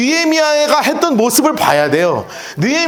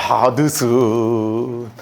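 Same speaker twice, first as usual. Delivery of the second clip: long, low, lazy sigh of relief; slack; 12 semitones lower, 3 dB quieter, much slower than usual. Retold or imitated. Pastor mimicking a worker's relief, drawn-out and lazy. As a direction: let it all go slack.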